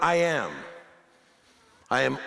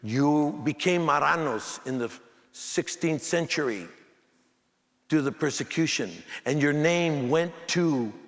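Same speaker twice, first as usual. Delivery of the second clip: put-on lightly lower, slow old man's voice; unhurried elder explaining, a bit lower; 5 semitones lower than usual. Old man explains the name Olmos, lightly lower and slow. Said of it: "He says".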